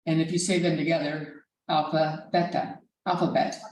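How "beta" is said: "beta" with a short e, BEH-tah; Greek pronunciation. Shown as a demonstration. Teacher showing memory trick from alphabet, Greek pronunciation. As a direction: say "beta" to match the bet in alphabet. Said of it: "that's how I remember how to pronounce beta".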